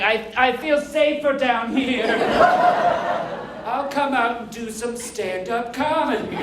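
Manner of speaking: slow, lightly put-on boy wizard; a hint of a timid wizard impression; slowed, drawn-out character voice; Harry Potter. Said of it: "Pretty good Harry Potter impression".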